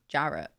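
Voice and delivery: "Jarrett" in a British accent, low and falling; British pronunciation of Jarrett. Shown as a demonstration. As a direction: say "Jarrett" in English, stress up front. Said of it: "sound like in a British accent".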